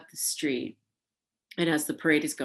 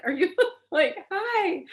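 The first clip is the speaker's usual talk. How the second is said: laughing high greeting; 6 dB louder than usual. Retold or imitated. Pearl Noir greeting her.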